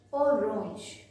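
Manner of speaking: "Orange" said the French way, stressing the last syllable. Shown as a demonstration. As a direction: model the French "Orange" slowly and loud. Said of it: "the pronunciation is totally different".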